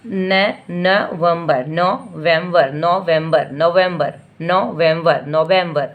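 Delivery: नवंबर stretched very slowly at first, then repeated; teacher sounds the word; slow sounding. Shown as a demonstration. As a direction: slowly model नवंबर for a child. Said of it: "sound करके बताइए".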